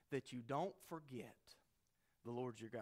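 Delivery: sudden hushed whisper after the build-up; dramatic whisper. Retold or imitated. Moses warning the second generation, suddenly whispered. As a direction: drop to a whisper to make it sink in.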